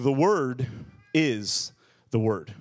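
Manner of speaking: slow, lightly voiced drunk; drawn out, with a long pause midway; drunk man. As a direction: say it like a tipsy man being profound. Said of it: "I am drunk".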